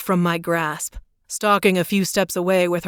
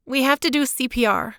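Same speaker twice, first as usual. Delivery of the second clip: Claire's voice; 7 semitones higher than usual. A narrator's reading. Claire voiced, urgent plea.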